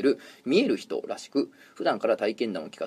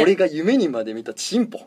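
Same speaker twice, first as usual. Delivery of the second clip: louder, higher excited take; excited repeat; 3 semitones higher, 4 dB louder than usual. Retold or imitated. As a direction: say it again with more thrill. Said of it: "と思ったのは今でも鮮明に覚えています".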